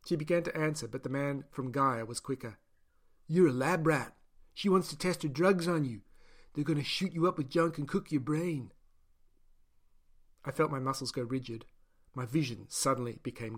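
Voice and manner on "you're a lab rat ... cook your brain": the caged man, blunt and raised; harsh prisoner warning. Acted. Caged man warning the new prisoner, blunt and raised. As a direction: spit the warning at him.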